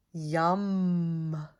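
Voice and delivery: a hint of satisfied squirrel voice; lightly voiced squirrels. A narrator's reading. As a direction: say it like a contented little critter. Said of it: "said the squirrels".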